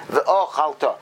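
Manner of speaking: ve'ochalta slowly, with a lengthened "o" and stressed final "ta"; semi-stress on beginning. Shown as a demonstration. Teacher repeating the correct reading, semi-stress at the start and stressed end. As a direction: separate the "o", then land on the end of ve'ochalta. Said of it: "semi-stress on the beginning".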